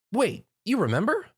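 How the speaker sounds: high surprised question. Acted. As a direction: ask in sudden surprise. Twilight surprised.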